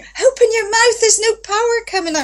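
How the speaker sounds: strict voice teacher scolding her pupil; bossy teacher. Retold or imitated. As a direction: scold like a hard taskmaster. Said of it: "And she's going".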